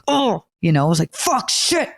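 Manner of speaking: high, frantic mock cursing; a high, panicky yelp of retold swearing; retold panicked cursing. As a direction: squeal it like you just locked yourself out.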